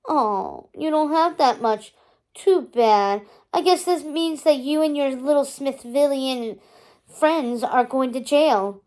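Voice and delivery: sly, gloating villain mother, slow at the end; evil smile. Acted. Mother gloating at her daughter's friends, sly and smug. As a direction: savor the threat with a smirk. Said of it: "Her mouth twists into an evil smile".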